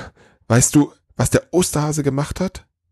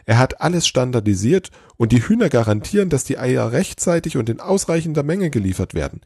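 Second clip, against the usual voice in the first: high-pitched, gushing elf voice; excited elf; 7 semitones higher than usual. A narrator's reading. Elf pitches the Easter Bunny's overhaul to Santa, excited. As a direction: rave about it in a high, eager voice. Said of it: "immer noch aufgeregt".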